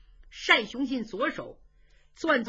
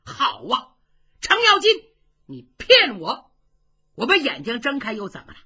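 angry; 3 semitones higher, 6 dB louder than usual. Acted. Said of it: "就急了".

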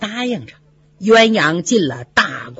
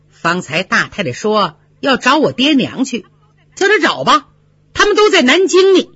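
lightly voiced, stern-faced maid refusing; grim defiance; 3 semitones higher than usual. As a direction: dig in, bitter and stubborn. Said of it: "鸳鸯沉着脸说，".

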